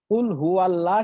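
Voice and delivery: কুল হু আল্লাহ with thin lam, the wrong way; কুল হু আল্লাহ lightly, shown as wrong; wrong reading. Shown as a demonstration. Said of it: "কিন্তু আমরা বলি না".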